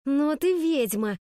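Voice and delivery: drawn-out, spiteful accusation; angry hiss. A narrator's reading. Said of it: "прошипела Пенни". (злобное шипение)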